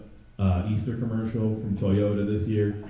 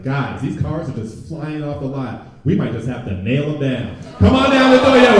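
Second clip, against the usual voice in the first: car dealer; 3 semitones higher, 5 dB louder than usual. Retold or imitated. Comic voicing the car dealer in the ad, building pitch. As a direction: build to a loud pitchman tagline. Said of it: "He was like".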